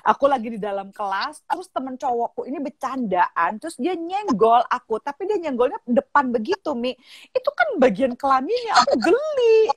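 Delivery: lightly imitated schoolgirl, building to a squeal; complaining daughter. Daughter explains the incident to mother, mild whine rising to squeal.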